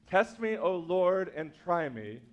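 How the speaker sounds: reading the psalm to show its three stresses; three-beat reading. Shown as a demonstration. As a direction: mark three beats in the line. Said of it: "translate the meter".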